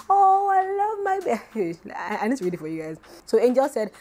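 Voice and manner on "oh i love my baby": high, teary mock gush of a delighted mom; gushing mother. Imitating the mother gushing over her birthday gift. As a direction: coo like an overjoyed mother. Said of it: "her mother was just gushing".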